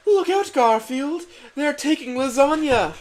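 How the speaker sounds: shrill-free high alarm shout; crying out a warning. Acted. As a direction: yell to warn him across the dock. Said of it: "cried out Miranda in helpfulness".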